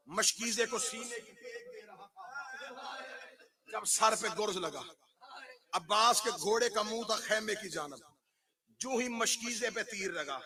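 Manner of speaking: soft, spent storytelling after the climax; hushed grieving narration. Acted. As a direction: murmur the martyrdom as if holding back tears.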